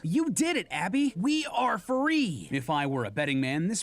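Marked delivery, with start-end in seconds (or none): 0.0-2.5 high-pitched thrilled cheer, drawing out the end; excited. Acted. Toy Chica celebrates the code with Abby, excited. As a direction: exclaim it with high, slow glee. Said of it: "excitedly she says".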